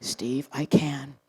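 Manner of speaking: slow unvoiced whisper; whispering to Steve. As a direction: whisper the secret aside.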